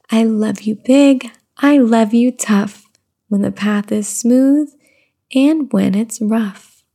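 slow sing-song read-aloud; reading to baby. Acted. Mother reading a rhyming book to her baby, slow sing-song. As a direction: lilt the rhyme gently for the baby.

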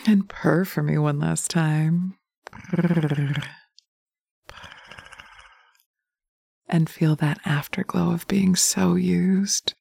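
sensual hypnotic ASMR. Acted. Dominant partner guiding the listener through hypnosis, intimate murmur. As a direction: coax the listener like a lover in their ear.

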